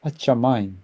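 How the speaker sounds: slow, careful Hebrew recitation for students to repeat; teacher modelling a verse slowly; slow model reading. Shown as a demonstration. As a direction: read each word slowly and clearly. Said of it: "한번 읽어보죠".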